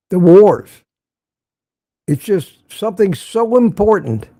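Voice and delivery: mock-grave build-up; sarcastically overblown, punching key words; sarcastic. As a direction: play up its huge importance, with long dramatic pauses. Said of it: "I'm being sarcastic".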